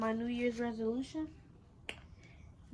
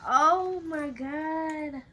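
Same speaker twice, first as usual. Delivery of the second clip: excited; 4 semitones higher, 6 dB louder, much slower than usual. Real, not acted. Excited opening new camera.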